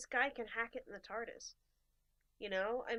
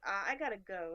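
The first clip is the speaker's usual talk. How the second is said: laughing escape; 3 semitones lower than usual. Retold or imitated. Awkward exit from the call.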